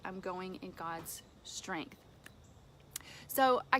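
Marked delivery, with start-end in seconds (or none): 0.0-2.0 softer, slow declaration of trust; quiet resolve. Retold or imitated. Believer quietly declaring trust to God, soft and slow. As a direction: say it slowly and softly, settled. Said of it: "just say".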